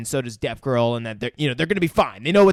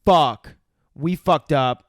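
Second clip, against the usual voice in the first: mock panic; 5 semitones higher, 7 dB louder than usual. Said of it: "immediately is like".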